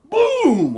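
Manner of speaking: one loud, high imitated boom; last boom heard through the floor. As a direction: slam out the final boom.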